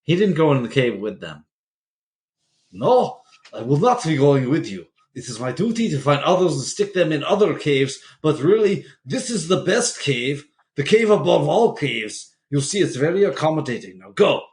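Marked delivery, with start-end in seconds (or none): 2.7-14.4 a hint of a smooth, persuasive cult leader; mock cult leader. Host voices the cult leader dismissing followers, mock persuasive. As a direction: play the leader sending them into the cave.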